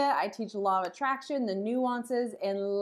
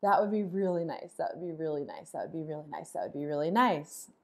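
having energy; 4 semitones lower than usual. Shown as a demonstration. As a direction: murmur it like a soothing reminder. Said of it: "shift back over to".

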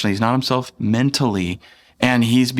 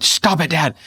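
higher-pitched imitation of a protesting little girl; alarmed daughter; 5 semitones higher than usual. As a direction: imitate a child telling dad off. Daughter reacting to dad's shriek.

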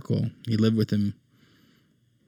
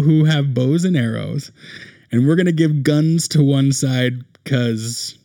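evil Klingon; 5 semitones higher, 5 dB louder than usual. Retold or imitated. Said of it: "They were like".

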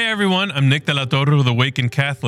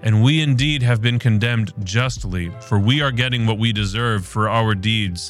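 measured, unhurried Gospel reading; scripture reading. Acted. Host reading Luke's Gospel to listeners, measured and reverent. Reads the Gospel passage aloud.

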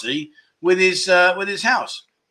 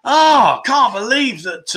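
surprised; 6 semitones higher, 3 dB louder, slower than usual. Real, not acted. Reacts to correct guess.

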